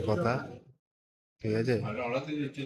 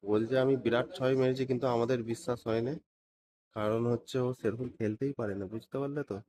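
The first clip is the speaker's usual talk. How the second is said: speaking quietly; 5 dB quieter than usual. Real, not acted. Worker gossiping to viewers about the boss's son, softly. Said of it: "আস্তে আস্তে বলছি".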